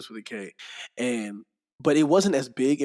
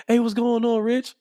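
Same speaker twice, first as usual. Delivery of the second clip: upbeat greeting; 9 semitones higher, 4 dB louder than usual. Retold or imitated. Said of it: "'cause he said it, like".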